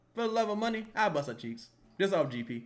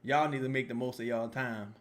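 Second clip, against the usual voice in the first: smug rich man; 5 semitones lower, 4 dB quieter than usual. Retold or imitated. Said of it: "I'll be like".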